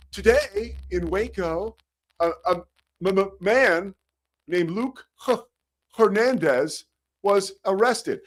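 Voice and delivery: high, slow, stammering news read; stumbling newsman. Shown as a demonstration. Dyslexic rookie anchor reading the teleprompter, high and stammering. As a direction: stammer through the headline like a terrified anchor. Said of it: "Imagine if he's delivering the news to you like this".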